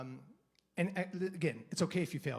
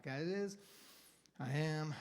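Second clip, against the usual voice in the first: soft mantra; 7 dB quieter, slower than usual. Shown as a demonstration. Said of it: "focus myself three or four breaths".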